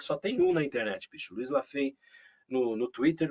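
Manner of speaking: normal talking voice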